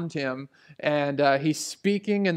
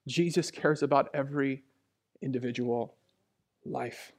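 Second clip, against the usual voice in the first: low, spaced words fading away; solemn emphasis; 3 semitones lower, 6 dB quieter than usual. Real, not acted. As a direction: set each word down softly, dropping to a hush. Solemn point repeated with pauses.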